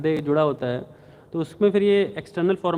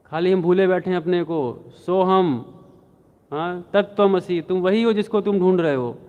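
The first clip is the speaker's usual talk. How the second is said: preaching it out louder, a touch higher; mock shout of the old preacher straining to be heard; retold shouting; 3 semitones higher, 4 dB louder than usual. Old preacher shouting his doctrine at the crowd, raised voice. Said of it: "और ज़ोर से चिल्लाने लगे".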